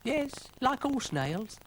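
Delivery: high, slow, proud snail; Brian the snail. Acted. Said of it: "said Brian".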